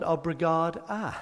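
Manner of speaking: Obrigada ending on a clear open -da; slightly slow Obrigada, stress on ga; female form. Shown as a demonstration. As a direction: feminine Obrigada with final a. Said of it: "if you're female, you respond".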